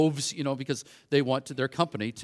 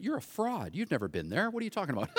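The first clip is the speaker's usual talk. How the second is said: self-mocking inner voice; 7 dB quieter, faster than usual.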